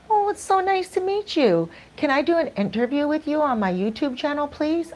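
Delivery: high, eager gushing; thrilled to meet the owner, asking sweetly; excited gushing. Retold or imitated. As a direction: gush at the owner, pitch way up. Gushing request to restaurant owner.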